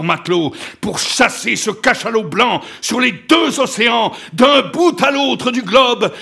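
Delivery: loud, mounting vow of vengeance, rising to shouts; raging imprecations. A narrator's reading. Ahab swearing to hunt the white whale, raging. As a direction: hurl it out like a curse. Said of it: "il continua dans un déchaînement d'imprécations".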